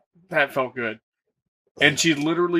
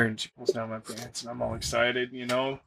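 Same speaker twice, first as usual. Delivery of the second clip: hushed, much softer voice; whispering; 4 semitones lower, 10 dB quieter than usual. Real, not acted. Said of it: "Why are you whispering?".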